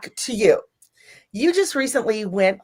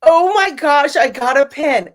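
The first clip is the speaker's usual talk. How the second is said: higher, louder imitated delight over a pin; mock excitement; 4 semitones higher, 4 dB louder than usual. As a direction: tease her happy gasp. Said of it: "you're like this".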